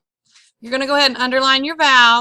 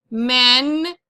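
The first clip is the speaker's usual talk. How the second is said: "Men-u" drawn out in two separate syllables. Shown as a demonstration. Teacher dictating menu to students, syllable by syllable. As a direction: stretch "Men", pause, then "u".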